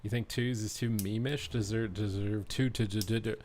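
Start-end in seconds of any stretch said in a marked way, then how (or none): 1.5-3.3 stuttering and stumbling. Real, not acted. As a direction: stutter on the words. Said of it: "Bro, I'm stuttering".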